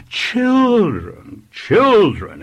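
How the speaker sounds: high, loud call to order; exclaiming vicar. A narrator's reading. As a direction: call out to silence an unruly class. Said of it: "exclaimed the vicar".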